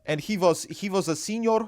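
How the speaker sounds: lightly done Indian accent; put-on Indian accent. Shown as a demonstration. Carrying on the school story in a light Indian accent. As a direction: tell it in a rough mock Indian accent. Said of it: "a little bit of this accent".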